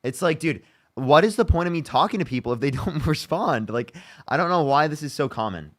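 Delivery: exasperated rant, rising in pitch; annoyed. Real, not acted. Streamer fed up with unanswered questions, exasperated. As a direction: vent your annoyance at evasive answers. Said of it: "I'm getting so annoyed".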